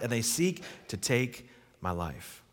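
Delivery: Elijah's self-pity, played up; self-pitying complaint. Complaint re-read, rising emphasis.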